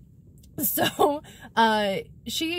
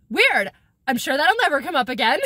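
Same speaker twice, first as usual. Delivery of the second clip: sarcastic aside; 5 dB louder than usual. Real, not acted. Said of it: "sarcastic aside".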